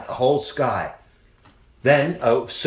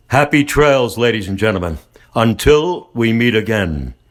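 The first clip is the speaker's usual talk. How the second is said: announcer sign-off; 6 dB louder than usual. Acted. Podcast sign-off.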